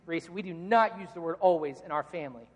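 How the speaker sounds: mildly stern retold father voice. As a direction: lay down a house rule firmly. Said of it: "I was very stern".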